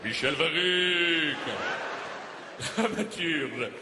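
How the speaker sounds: slow, stretched-out name announcement; grand self-introduction. Acted. Dramatist presenting himself by name and trade, pompous.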